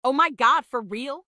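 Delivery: dry mock surprise; sarcastic. Real, not acted. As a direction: fake amazement, teasing. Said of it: "You're being sarcastic".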